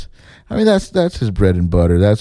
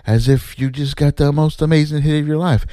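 mildly mock the self-satisfied man showing off his props; mocking the director; 5 semitones higher than usual. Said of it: "he keeps saying".

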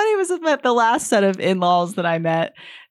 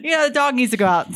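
fussy mom; 5 semitones higher, faster than usual. Retold or imitated. Mom voiced in story.

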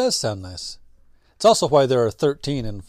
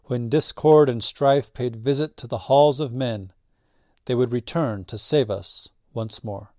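epic fantasy narrator. Acted. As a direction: read it like an ancient legend. Reads the legend aloud.

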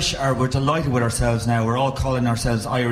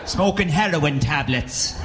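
higher, mock-accusing father voice; disapproving father; 5 semitones higher than usual. Father accuses son of taking drugs in Dublin, mock indignant voice. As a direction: play the know-it-all father laying down accusations. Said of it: "He'd be like".

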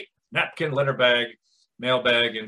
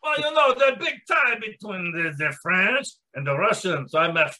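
put-on Russian accent slipping French. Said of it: "you sound strangely French".

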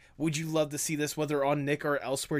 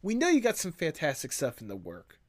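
big shot producer. Pretend. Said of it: "I come up to you and I'm like".

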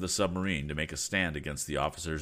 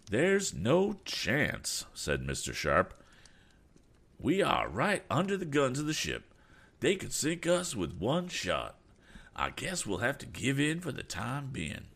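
lightly voiced, higher, resigned man; a hint of a higher voice, glum; resigned aeronaut; 9 semitones higher than usual. A narrator's reading. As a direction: give in, calm and matter-of-fact. Mister Sharp voiced by narrator.

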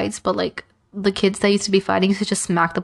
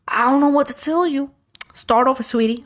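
higher, lightly voiced dismissive teacher; mocking the coach; 5 semitones higher than usual. Art coach telling the student to start over, mock-sweet and higher. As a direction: brush her off with fake sweetness. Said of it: "He's like".

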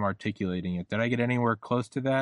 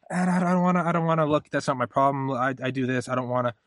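put-on higher, louder, childish whine of not wanting to look; whiny refusal; 3 semitones higher, 3 dB louder, faster than usual. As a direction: whine it like a kid covering their eyes.

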